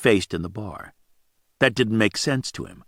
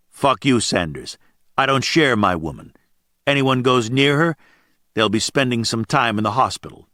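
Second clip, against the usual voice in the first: menacing. Acted. Ice warns the bar to stay away from his woman, mildly menacing. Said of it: "He put menace in his voice".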